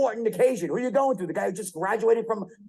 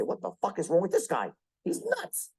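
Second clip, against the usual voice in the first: mock listener reaction; 4 dB quieter than usual. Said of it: "They'd say".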